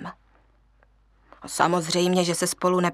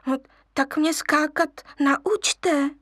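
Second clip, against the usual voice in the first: wheedling; 6 semitones higher, slower than usual. Acted. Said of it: "loudil lvíček".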